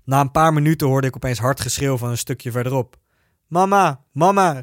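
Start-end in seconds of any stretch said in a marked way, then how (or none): 3.5-4.6 crying out. Retold or imitated. Injured friend in the verge crying for her mother, high call. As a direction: call for mama from the roadside. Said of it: "riep Selver".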